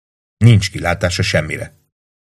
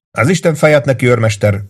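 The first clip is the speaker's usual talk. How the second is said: bursting out, pitched well higher; angry outburst; 5 semitones higher than usual. Acted. Lieutenant swears at the sergeant in frustration, bursting out. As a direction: explode with the curse at the sergeant. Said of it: "robbant ki".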